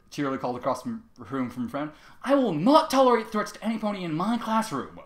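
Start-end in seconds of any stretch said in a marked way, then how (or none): 2.2-5.0 stern. Acted. Cheerilee protests Trevor's threat.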